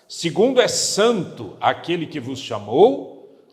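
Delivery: slow, loud, weighty reading; solemn scripture reading. Real, not acted. Pastor leading the congregation in reading, slow and solemn. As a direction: read each phrase slowly with weight. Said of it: "Vamos ler juntos".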